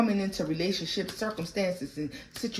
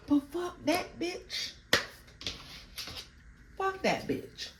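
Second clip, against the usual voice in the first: scornful dismissal; 11 semitones higher, 7 dB quieter, slower than usual. Real, not acted.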